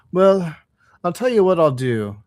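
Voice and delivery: lightly voiced helpful driver; a hint of a good-natured driver; engine driver. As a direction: make the offer lightly in character.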